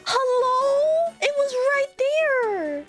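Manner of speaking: exasperated disbelief. Real, not acted. Exasperated at missed joke.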